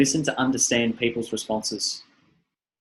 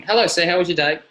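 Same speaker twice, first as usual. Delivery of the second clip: telemarketer; 4 semitones higher than usual. Retold or imitated. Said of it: "now they're going".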